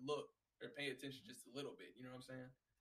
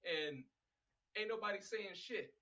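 raised, louder disbelief at a coworker; exasperated what-the-hell rant; high, loud retold indignation; incredulous outburst; 5 semitones higher, 3 dB louder than usual. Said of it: "I'm like".

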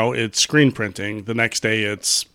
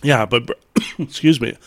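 coughing mid-sentence; choking on a drink. Real, not acted. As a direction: splutter through a swallowed drink. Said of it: "Choking on whiskey".

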